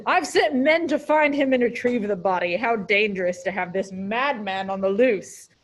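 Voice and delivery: a hint of a commanding monarch; kingly voice. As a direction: read it like a stately king. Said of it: "In a kingly voice?".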